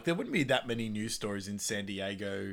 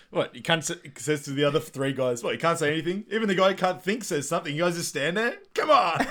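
high, loud, exasperated movie rant; imitating an incredulous, furious rival; mock angry outburst; 6 semitones higher, 7 dB louder than usual. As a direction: berate them, building to a yelled finish. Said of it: "he's just angry in everything".

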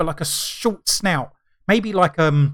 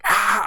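mild mock yell, higher pitched; short imitated cry on waking; retold shout; 5 semitones higher than usual. Dreamer waking up shouting, in a mild mock yell. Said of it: "waking up and shouting".

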